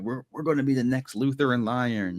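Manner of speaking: put-on lightly slurred drunken boast. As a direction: play a tipsy knight dreaming big. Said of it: "He slurred through".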